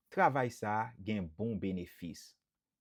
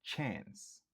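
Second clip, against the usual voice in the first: Chance whispered; softly whispered model word; 6 dB quieter than usual. Shown as a demonstration. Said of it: "Yon sèl silab lan".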